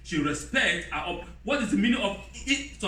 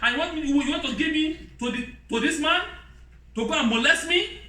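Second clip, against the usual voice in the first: mock outraged wife; 7 semitones higher than usual. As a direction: act out an outraged modern wife, pitched up. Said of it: "like the woman of now said".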